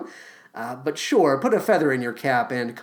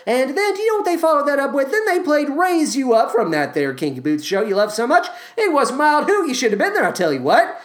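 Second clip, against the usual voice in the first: gossipy country lady; 5 semitones higher than usual. Pretend. Line dance class lady voice.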